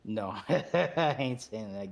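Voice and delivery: laughing through the refusal; amused refusal. Real, not acted. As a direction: break into a laugh after "No".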